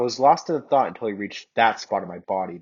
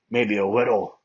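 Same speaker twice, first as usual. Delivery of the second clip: sheepish. Acted. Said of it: "Bakugo admitted sheepishly".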